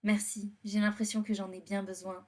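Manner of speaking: douce réplique de princesse de dessin animé, à peine marquée; léger ton de princesse de conte; princesse Disney. Acted. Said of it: "Je parle comme une princesse Disney". (voix de princesse Disney à peine esquissée)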